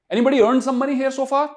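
high, loud cheer; excited cheering. Real, not acted. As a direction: whoop it up for the crowd. Cheering students who earn.

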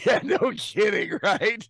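shouting. Real, not acted. Shouted agreement.

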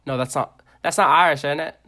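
badly faked Irish accent. Carrying on the chat, failed Irish accent. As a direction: attempt an Irish accent and miss. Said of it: "in my Irish accent".

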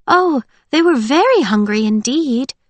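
high, singsong character voice. A narrator's reading. Winter answering Holt as she struggles up, dreamy.

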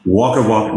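"Wagga Wagga" said in full as WOG-uh WOG-uh; local place name. Shown as a demonstration. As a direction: give "Wagga Wagga" both halves, WOG-uh WOG-uh. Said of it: "never call Wagga Wagga Wagga".

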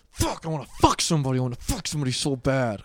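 lightly voiced desperate guy; imitating Robbie. Mocking angry Robbie begging for sex, lightly voiced. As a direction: whine it like a horny freshman. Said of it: "he's like".

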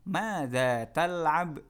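"Madza tal'ab" dieja sangat lambat; contoh lambat. Shown as a demonstration. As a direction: ucapkan pelan untuk murid. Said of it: "Contoh misalnya". (contoh diucapkan sangat lambat)

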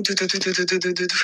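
soft du du du like a pounding heart; imitated heartbeat. Sneaking to her room past their father, soft heartbeat sounds. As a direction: hum a quiet heartbeat while sneaking. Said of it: "Barulho de coração".

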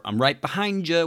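hammed-up creepy comment; mock menacing.

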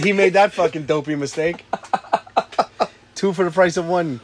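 laughing as he mocks. Real, not acted. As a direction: chuckle through the insult. Laughing while mocking.

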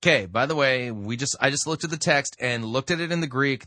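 loud, insistent rebuttal; emphatic rebuttal. Real, not acted. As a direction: set the record straight, forcefully. Rebutting the preacher's claim.

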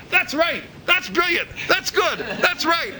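high, gushing praise voice; mock flattery. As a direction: fawn over him like a hired admirer. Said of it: "a little thing saying".

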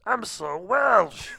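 high, loud, slow fake Welsh voice; bad Welsh accent. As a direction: do a Welsh accent that misses badly. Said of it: "He does this impression of a Welsh person that doesn't sound like a Welsh person".

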